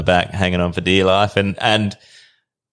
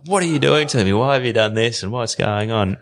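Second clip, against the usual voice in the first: retold indignant questioning, pitched up; acting out a heated challenge; fired up; 4 semitones higher than usual. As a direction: demand answers, mildly worked up. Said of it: "I was a bit fired up".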